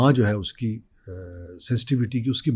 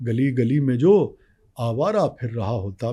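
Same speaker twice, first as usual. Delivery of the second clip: nazm recitation. Acted.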